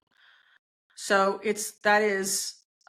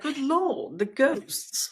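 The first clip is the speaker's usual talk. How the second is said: put-on an American's Downton Abbey British accent, pitched higher; hammed-up generic English aristocrat accent; mock posh British accent; 4 semitones higher, much slower than usual. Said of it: "I don't even know what accent that is".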